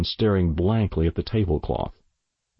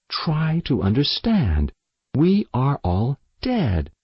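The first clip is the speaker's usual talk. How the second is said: higher, insistent appeal; pleading; 6 semitones higher than usual. A narrator's reading. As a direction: plead with them to believe you. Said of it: "Julia pleaded".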